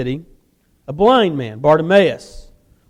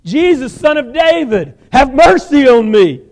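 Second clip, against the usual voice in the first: slow, loud plea, higher; shouting; 5 semitones higher, 6 dB louder, slower than usual. Acted. Blind beggar shouting to Jesus for mercy. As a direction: cry out for mercy. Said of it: "he began to shout".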